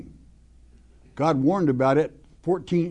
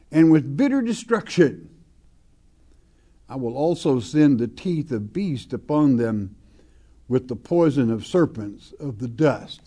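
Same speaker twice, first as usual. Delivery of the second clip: scripture reading. Acted. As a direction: read the verse with weight, like a preacher. Reads scripture aloud from pulpit.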